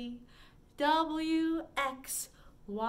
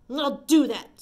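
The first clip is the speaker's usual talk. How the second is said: ladybug voice; 2 semitones higher, 9 dB louder than usual. Acted. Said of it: "screeched the grouchy ladybug".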